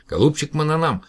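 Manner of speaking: suddenly sweet, coaxing address; butter him up gently. Acted. Professor suddenly sweet-talks the alien, coaxing. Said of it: "заговорил ласковым голосом".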